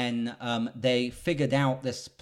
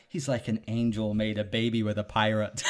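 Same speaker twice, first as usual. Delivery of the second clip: laughing quote. Retold or imitated. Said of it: "Drax has that best line".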